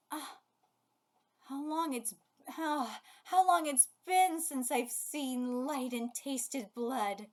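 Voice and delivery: slow, drawn-out monster voice, savouring each word; a hungry creature waking after ages in the dark; awakened monster. Acted.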